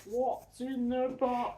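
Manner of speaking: slow, hushed, dramatic repeat; dramatic whisper. Pretend. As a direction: breathe the line out ominously. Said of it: "I'm being dramatic".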